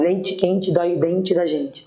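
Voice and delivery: "leite quente dói o dente da gente" with every TE said tchi; playful tongue-twister phrase with I endings on "leite quente dói o dente da gente"; spoken final I. Shown as a demonstration. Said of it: "porque a gente pronuncia o I".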